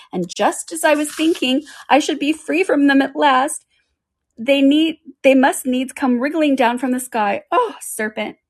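high, agitated bird complaint; mild shriek, pitched well up; rising to shriek. A narrator's reading. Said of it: "rushing its voice to a shriek".

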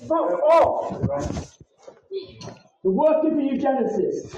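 swearing tirade. Real, not acted. Swearing at staff.

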